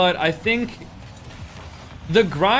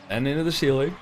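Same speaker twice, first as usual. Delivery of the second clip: words stretched by a yawn; 3 semitones lower than usual. Real, not acted. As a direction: talk through a yawn. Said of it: "I'm yawning so much".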